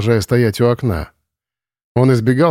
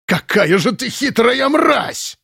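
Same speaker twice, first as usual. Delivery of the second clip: much higher, slow furious yell; shouting in rage; 12 semitones higher, much slower than usual. Acted. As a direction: scream the insult at her. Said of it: "закричал он". (комендант в ярости кричит на пленницу)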